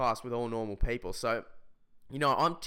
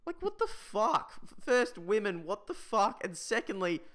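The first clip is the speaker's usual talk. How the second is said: exasperated rant, pitched high; riled up; 9 semitones higher than usual. Real, not acted. Comic ranting about a schoolgirl crying in class, riled up. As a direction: spit out each disbelief in a high, worked-up voice. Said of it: "actually getting me riled up right now".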